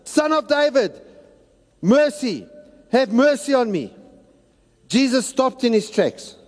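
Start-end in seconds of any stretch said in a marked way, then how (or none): 0.0-3.9 1 mild retold cry. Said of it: "He yelled all the louder".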